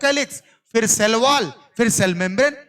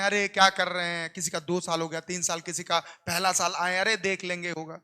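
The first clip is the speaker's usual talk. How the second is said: gossiping neighbour; 4 semitones lower, 7 dB quieter than usual. Retold or imitated. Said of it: "बुराइयां करते हैं".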